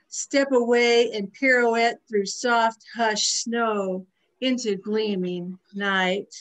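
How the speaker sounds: measured poem recital with lingering words; poetry reading. Acted. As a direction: recite it line by line, letting phrases breathe. Reads own short poem.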